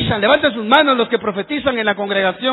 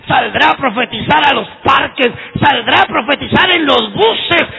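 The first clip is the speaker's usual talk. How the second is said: rising preaching; 3 semitones higher than usual. Acted. Pastor urging the church, building to a shout.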